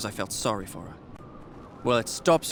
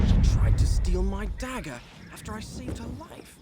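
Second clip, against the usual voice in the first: indignant; 9 semitones higher, 3 dB louder than usual. Acted. Indignant complaint about the girl.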